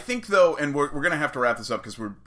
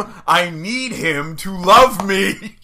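mock pleading; 5 semitones higher, 7 dB louder, slower than usual. Mock longing plea to Effie.

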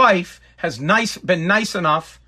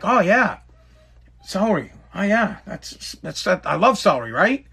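fake enthusiasm. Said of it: "I'm gonna say it just like that".

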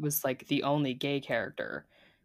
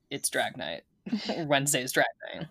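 deadpan. Retold or imitated. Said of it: "couldn't be more sad and deadpan".

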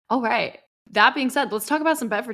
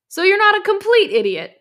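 higher-pitched line with a smile; pitched up, smiling delivery; 10 semitones higher, 4 dB louder than usual. A narrator's reading. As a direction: read it lifted, through a smile. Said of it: "Ellison smiled".

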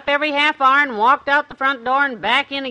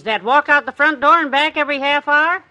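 dawning realization; 4 semitones higher, 5 dB louder than usual. Acted. Wife realizes the trick.

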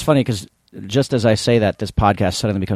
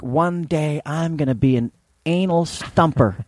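mock little girl; 5 semitones higher, slower than usual. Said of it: "she was like".

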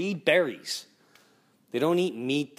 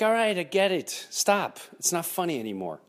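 annoyed; 6 semitones higher than usual. Retold or imitated. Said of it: "it starts getting annoying".

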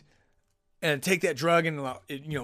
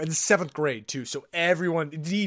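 ordinary delivery

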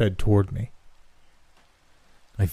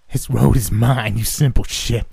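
crazy hag; 3 semitones higher, 5 dB louder than usual. A narrator's reading. Crazy hag gloats over captive.

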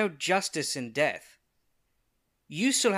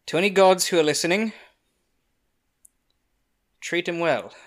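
calling to gods; 8 dB louder than usual. Acted. Prayer at the pond.

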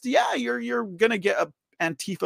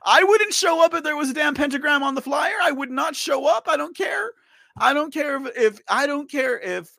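raised, high-pitched frustrated outburst; 6 semitones higher, 3 dB louder than usual. Real, not acted. Streamer refusing to attend over the pentagram flyer, frustrated outburst. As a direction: insist loudly, thoroughly fed up. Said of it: "It's frustrating".

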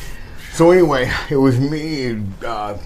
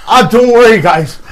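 imitating the Sheik; 6 semitones higher, 8 dB louder than usual. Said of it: "like that".

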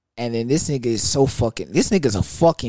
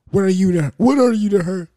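high, louder mock demand; imitating jealous boyfriend; 8 semitones higher, 5 dB louder than usual. Boyfriend demanding who he is, high mock voice. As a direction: squawk it like the jealous guy. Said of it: "He's like".

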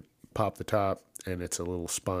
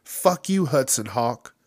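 higher, louder mock dismissal; mock shout; 6 semitones higher, 5 dB louder than usual. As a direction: shout it back at him. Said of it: "they're like".

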